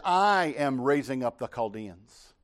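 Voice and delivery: God declaring judgment. Acted. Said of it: "He says".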